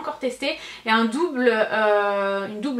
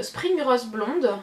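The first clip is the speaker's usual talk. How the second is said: Spring Rose blonde read slowly in a strong French accent; careful, very slow attempt at English on "Spring Rose blonde"; self-conscious English accent; much slower than usual. Shown as a demonstration. Vlogger reading an English scent name, slow French-accented English. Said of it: "mon accent il est atroce".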